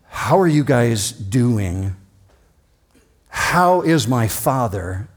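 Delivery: slow, gentle question; Joseph's greeting. Retold or imitated. Joseph asks his brothers about their father, slow. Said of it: "very quickly on the greeting".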